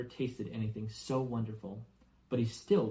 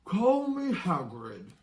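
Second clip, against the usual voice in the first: slow, higher, louder friendly giant; Hagrid; 8 semitones higher, 6 dB louder, slower than usual. Acted. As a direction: warmly offer your name. Hagrid introduces himself.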